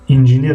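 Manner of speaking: "انجینیر" said the Russian way, inzhenyer; Russian pronunciation. Shown as a demonstration. Teacher comparing with the Russian word, Russian pronunciation. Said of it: "و روسی".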